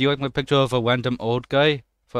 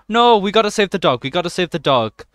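excited alarm; 6 semitones higher, 6 dB louder than usual. Real, not acted. Player sees dog in danger.

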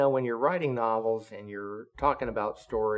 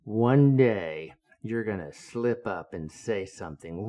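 slow, louder threat with a put-on edge; menacing captain; 6 dB louder, slower than usual. Captain threatening his officers, slow and louder. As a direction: lean in and threaten the room like an angry captain. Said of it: "he goes".

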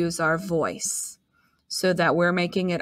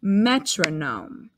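Metronome said slowly, syllable by syllable; drawn-out Metronome; slow and clear; slower than usual. Shown as a demonstration. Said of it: "Say it again".

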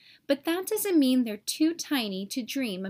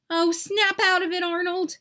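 louder, impatient snap at a friend; exasperated scold; 5 semitones higher, 4 dB louder than usual. Acted. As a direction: shake him out of it. Germ scolding Arnold.

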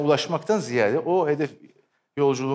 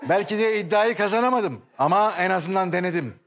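announcer voice; 2 semitones higher than usual. Shown as a demonstration. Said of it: "spiker gibi konuşarak gel".

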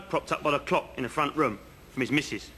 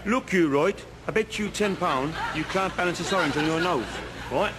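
rough comic stab at Welsh; bad Welsh accent. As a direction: put on a Welsh voice, badly. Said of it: "I can't do the accent".

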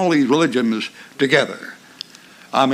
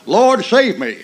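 a sudden raised plea, short and urgent; Peter's cry; 5 semitones higher, 4 dB louder, slower than usual. Shown as a demonstration. Preacher showing the congregation Peter's cry, raised plea. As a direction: cry it out like a drowning man. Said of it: "Just like that".

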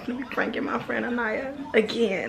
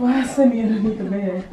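laughing loud question; 6 dB louder than usual. Real, not acted. Finds friend under bed.

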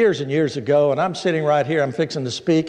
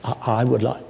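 stuttering woman; 4 semitones lower than usual. Retold or imitated. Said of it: "but boy, did she stutter".

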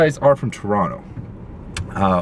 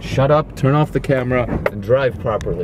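mildly raised mock telling-off; imitated scolding mom; 3 semitones higher than usual. Son quoting mom about filming while driving, imitated scolding. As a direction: lightly act out a mother's orders. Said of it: "my mom's like".

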